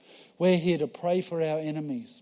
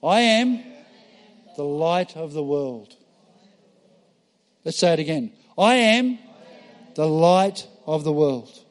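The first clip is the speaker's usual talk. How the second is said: congregation declaration; 4 dB louder than usual. Shown as a demonstration. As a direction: lead the room in a bold declaration. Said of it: "Now I want you to say".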